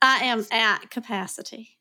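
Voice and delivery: unintended Southern twang, lightly; southern accent. Real, not acted. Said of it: "in the southern accent".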